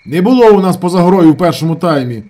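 high, loud contradiction; loud correction. A narrator's reading. Shamil corrects his brother, loud. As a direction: correct him forcefully. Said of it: "несподівано поправив його Шаміль".

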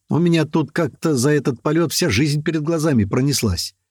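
plain reading voice

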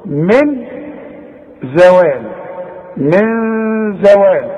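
من زوال with a nasal hidden ن; demo. Shown as a demonstration. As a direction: hum the ن in من زوال. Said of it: "شوف".

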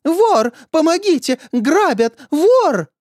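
high, loud cries of thief; old teacher screaming for help, voice up high and loud; panicked high yells; shouting for help. A narrator's reading. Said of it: "пришла Нина Францевна и закричала".

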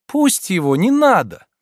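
high, loud command. A narrator's reading. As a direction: order the boatman to stop. Olga's voice. (приказным тоном, громко)

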